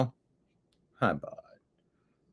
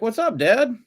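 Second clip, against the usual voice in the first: higher-pitched, cheeky talking cat; cat's voice, pitched up; voicing the cat; 8 semitones higher than usual. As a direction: speak up high for your pet. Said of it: "Nimbus is like".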